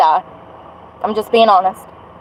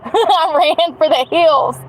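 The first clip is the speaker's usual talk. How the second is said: laughing through the words, slow; 6 semitones higher, slower than usual. Real, not acted. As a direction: chuckle it out slowly. Laughs at own escape.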